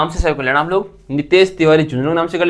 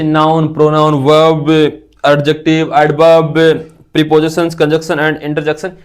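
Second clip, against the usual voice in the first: slow listing; 4 dB louder, much slower than usual. Shown as a demonstration. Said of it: "वो आपको लिखनी है".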